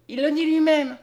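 high, loud insistence; crying out. A narrator's reading. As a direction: insist with an excited, lifted voice. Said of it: "s'écria la jeune fille". (exclamation insistante, voix haute et forte)

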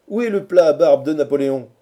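loud, high demand from a rowdy crowd; loud heckling. A narrator's reading. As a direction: call out the absurd demand at full voice. Friends heckle the captive Quatercam. (interpellation forte et moqueuse)

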